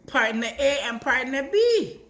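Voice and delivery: excited pride. Real, not acted. Proud of bond with grandmother.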